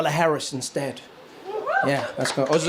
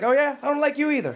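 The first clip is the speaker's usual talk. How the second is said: higher, cheeky imitated Biden retort; mock Biden comeback; 8 semitones higher than usual. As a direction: fire it back with a grin. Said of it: "Joe Biden's like".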